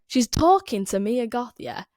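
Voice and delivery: imitating an actress's overdone Northern English accent; mock Northern accent. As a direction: put on a broad Northern English lilt. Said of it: "starts talking Northern like this".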